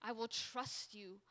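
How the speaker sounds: soft, settled surrender; hushed, tender promise; embracing trust. Acted. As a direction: quietly yield to God. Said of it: "to embracing".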